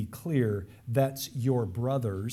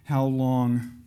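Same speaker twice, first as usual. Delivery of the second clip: martyrs' outcry; 5 dB louder, slower than usual. Acted. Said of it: "they cried out".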